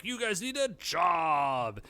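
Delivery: slow, shouted gripe in a put-on voice; retold angry yell at freeloading friends; mock angry shout. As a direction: bark it like a fed-up friend stuck with the bill. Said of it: "Kenta's very angry".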